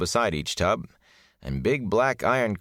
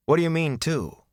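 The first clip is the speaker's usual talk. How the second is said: put-on higher, urgent young voice; alarmed question; 10 semitones higher than usual. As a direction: jump on his words. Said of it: "Rand asked".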